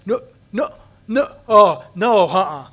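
a nervous guy backing out; Dennis refusing. Retold or imitated. Detoxing guy turning down a favor, protesting.

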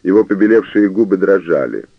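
usual speaking voice

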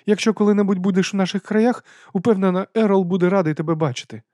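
high, hearty aristocratic lady; lady's voice. A narrator's reading. Lady explains dragon stomachs to Vimes. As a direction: lift the voice for the lady.

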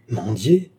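disdainful echoed question; proud disdain. A narrator's reading. Gilbert rejects the idea of begging, proudly disdainful. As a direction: throw the word back with haughty scorn. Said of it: "avec un superbe dédain".

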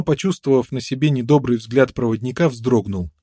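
ordinary talk, nothing marked

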